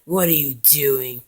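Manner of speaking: slow, lightly voiced frog character; a slow, drawn-out challenge in a light character voice; Genghis's voice. Confronting Napoleon in Genghis's voice, slow and drawn out. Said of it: "that's Genghis' voice".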